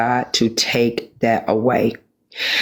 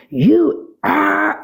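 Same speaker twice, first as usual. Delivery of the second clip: mock insult; 13 semitones higher than usual. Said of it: "have I ever used it like".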